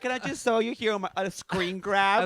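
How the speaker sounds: quick, teasing imitation of a friend; exaggerated mock request, slightly rushed; mocking Nick. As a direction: roast your friend's hopeful plea. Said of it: "I love that the other, you're like".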